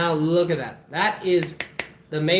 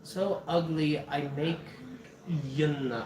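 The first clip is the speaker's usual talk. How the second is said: mock sister insult; 4 semitones lower, 8 dB quieter, slower than usual. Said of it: "she said".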